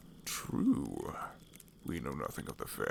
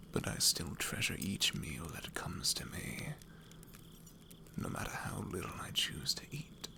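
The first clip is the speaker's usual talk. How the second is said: hushed rogue; 5 dB quieter than usual. Acted.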